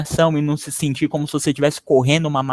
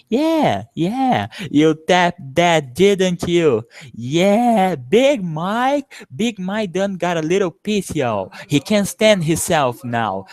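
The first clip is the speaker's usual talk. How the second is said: higher, taunting, drawn-out teasing; mocking street guy; 5 semitones higher, slower than usual. Gang leader taunting Mike about his sister, higher and mocking. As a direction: needle Big Mike with a grin. Teacher performs movie dialogue.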